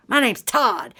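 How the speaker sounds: light Southern twang, imitated; lightly mocked Southern drawl; funny Southern accent. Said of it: "he had a funny Southern accent".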